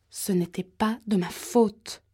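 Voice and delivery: slow, drawn-out mock cry of protest; mild cry. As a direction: stretch the words in a half cry. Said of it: "cria la voix".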